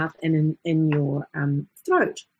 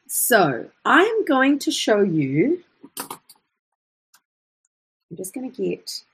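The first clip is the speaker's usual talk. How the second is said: usual speaking voice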